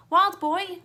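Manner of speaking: high loud call; girl yelling a warning; yelling his name. A narrator's reading. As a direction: call him urgently. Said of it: "Clarissa yelled".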